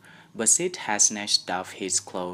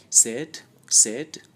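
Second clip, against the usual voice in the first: loud call across the room; 4 semitones higher, 8 dB louder than usual. A narrator's reading. Tom calls loudly to wake his sleeping brother Sid.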